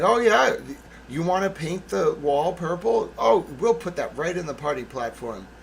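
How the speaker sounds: lightly put-on indulgent kindergarten-teacher voice; talking to a kindergartner. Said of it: "like, kindergartner".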